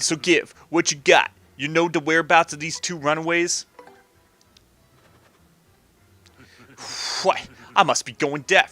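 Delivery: lightly voiced gangster boss; a touch of wiseguy threat; menacing mob boss. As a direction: needle them like a mob boss, building to indignation.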